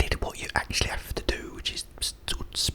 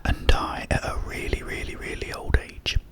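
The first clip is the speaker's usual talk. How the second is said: whisper. Real, not acted. Telling viewers a joke, in a whisper. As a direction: tell the joke in a hushed ASMR whisper.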